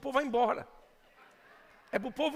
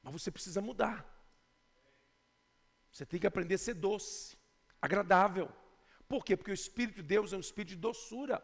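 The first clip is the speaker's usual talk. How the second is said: lower, much softer preaching; soft, tender exhortation; 5 semitones lower, 7 dB quieter than usual. Real, not acted. Pastor urging the church to be sweet, soft tender tone. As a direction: ease into a gentle hush.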